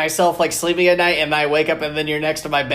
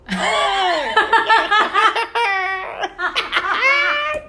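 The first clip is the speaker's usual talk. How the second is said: high-pitched laugh. Acted.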